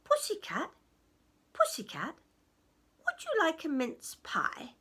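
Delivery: lightly voiced goblin offering food; a hint of a coaxing goblin. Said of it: "and he said".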